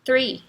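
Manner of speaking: "three" starting with tongue between the teeth; isolated "three", TH sliding into R; "three" with TH, not T; TH-R demonstration. Shown as a demonstration. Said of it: "a língua fica entre os dentes".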